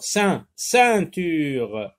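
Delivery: ceint- said alone, then ceinture in full, slowly; the first syllable isolated for the class; syllable then word. Shown as a demonstration. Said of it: "on entend aussi le même son".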